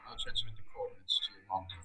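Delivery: low and rushed, mic too quiet; muttered quickly under the breath. Real, not acted. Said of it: "your mic was a bit low".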